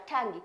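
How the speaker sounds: टैंगी with only a faint g; softened G. Shown as a demonstration. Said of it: "उसको sound थोड़ा सा कम रहता है".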